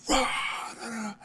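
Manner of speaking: soft mock roar, trailing away; imitated roaring din. Storyteller imitating noise through an opened door, muted mock roar. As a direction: imitate a distant roar without full volume. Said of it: "it gets obviously louder. You just hear".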